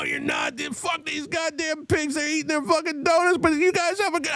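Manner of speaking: put-on very high, slurred drunk hollering; drunken yelling. Drunk drummer hollering insults at the cops before getting smacked. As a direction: bellow it like a wasted friend mocking the police.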